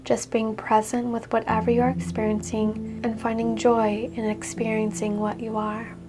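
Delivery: calm yoga teacher voice guiding relaxation; guided meditation. Acted. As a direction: ease them gently into the body scan. Leads a guided body scan.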